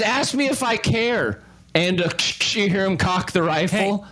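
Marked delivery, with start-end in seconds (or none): 0.0-1.4 higher, sneering brush-off; a hint of a cold-hearted rifleman; dismissive. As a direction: toss it off like you couldn't care less. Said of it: "He says".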